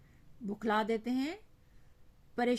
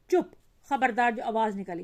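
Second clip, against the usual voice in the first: angry threat; 6 dB louder than usual. Acted. Mother threatening crying child.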